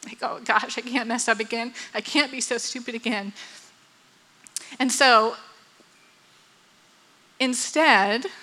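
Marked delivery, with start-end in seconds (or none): 0.2-3.3 hushed worried inner voice; mild anxious self-talk. Retold or imitated. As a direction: murmur it softly to yourself, mildly fretful. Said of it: "made me afraid of future failure".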